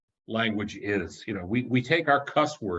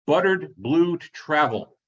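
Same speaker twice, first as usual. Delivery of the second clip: raised, slow diner-order call; mock shout, higher and drawn out; imitated waitress shout; 5 semitones higher, 4 dB louder, slower than usual. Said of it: "waitress used to ... go by shouting".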